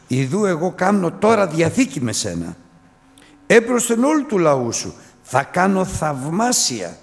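preacher voicing the Lord, loud and exalted; the Lord proclaiming. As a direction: thunder out God's promise to the people. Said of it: "Και είπε ο Κύριος".

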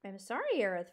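lightly sniveling apology. Acted. Fox apologizing to the porcupine, sniveling. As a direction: apologize meekly, dropping off. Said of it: "a voice that was best sniveling".

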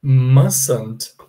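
"Mustn't" as MAS-unt, t silent; "Mustn't" clipped with the t dropped. Shown as a demonstration. Teacher modelling mustn't for the class. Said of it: "É como se eu falasse assim".

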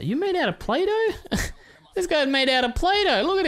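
laughing. Real, not acted. Laughing at a card.

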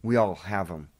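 a loud, punchy one-word opener; booming show-opener call; dramatic announcement. Acted. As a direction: hit the title hard to grab attention. Dramatic opening of a devotional.

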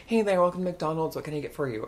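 lightly put-on service greeting; drive-through order taker. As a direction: routine order-taker patter. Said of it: "someone who takes an order".

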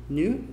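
'new' with pursed lips, between noo and nee-oo; pouted in-between vowel. Shown as a demonstration. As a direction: pout slightly on 'new', keeping the glide small. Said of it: "com biquinho".

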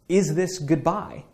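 "Is this goodbye?" drawn out slowly, rising on "Is"; slow, musing read of "Is this goodbye?"; slow wistful question. Shown as a demonstration. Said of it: "Think about that subject line".

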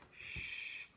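unvoiced hush; whispered shh. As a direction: shush him in a breath. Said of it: "whispered Grandpa Joe".

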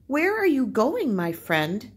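macaw calling out high and loud. Acted. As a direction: call down to the beetle as a friendly bird. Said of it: "Macaw called out".

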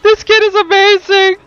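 laughing. Real, not acted. Laughing after kid's outburst.

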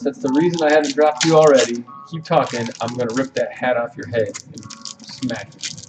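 low-key threat. Retold or imitated. Retold warning to the veteran, quiet menace. Muttered threat after the argument.

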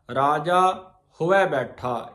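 ਹੋਇ spoken as ho-i, two vowels; pronunciation of ਹੋਇ. Shown as a demonstration. Teacher corrects the congregation: ਹੋਇ as ho-i. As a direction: say ਹੋਇ as "hoi", not ਹਵੈ. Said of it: "ਇਹਦਾ ਉਚਾਰਨ ਆ ਹੋਇ ਬੈਠਾ".

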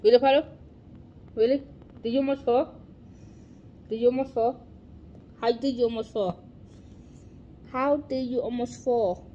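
mock scolding. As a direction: needle him about almost falling. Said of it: "I said".

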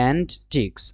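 "Antiques" in two careful parts, an-teeks; antiques pronunciation demo. Shown as a demonstration. Teacher repeating antiques for students, careful pronunciation. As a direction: separate "an" from a long "teeks" in "Antiques". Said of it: "ডটা কিন্তু উচ্চারণ হয় না".

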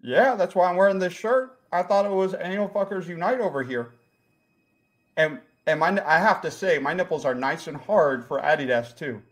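put-on light comic Jacksonville accent. Lost visitor explains himself to the host, light Jacksonville accent.

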